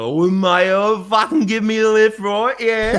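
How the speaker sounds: mock drunk Aussie begging a stranger for a lift; drunk Aussie bloke. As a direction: beg for a lift like a pestering drunk. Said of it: "He's like".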